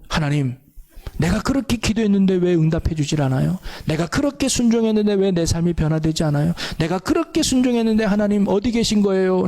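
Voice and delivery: a touch of whining at God, lightly voiced; half-hearted plea of a doubting believer; mild complaining. Believer complaining to God why prayers go unanswered, mildly plaintive. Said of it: "라고 원망하고 불평하고 불신하는".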